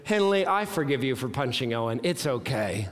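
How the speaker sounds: low, understated forgiveness; lightly voiced three-year-old. Three-year-old forgiving his baby sister, low and gentle. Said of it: "goes over to Henley and says".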